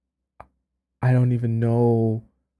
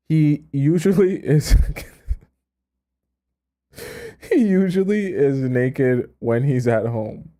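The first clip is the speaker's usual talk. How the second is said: words pushed out slowly through laughter; slow, giggling read-through; laughing; slower than usual. Real, not acted. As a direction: read it while cracking up. Laughing while reading.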